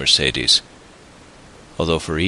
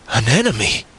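high, sharp outburst of indignation; affronted cry; indignant cry; 6 semitones higher than usual. A narrator's reading. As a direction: exclaim in offended disbelief, voice jumping up. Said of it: "cried Mercedes with an angry look".

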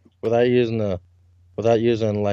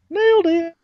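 high mock triumph. Put-on high exclamation.

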